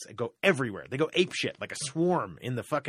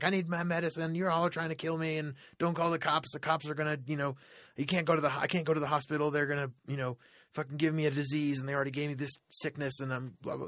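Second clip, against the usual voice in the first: higher, lightly voiced paranoid rant; imitating the paranoid woman; 4 semitones higher than usual. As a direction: play her fearful ranting, pitched up.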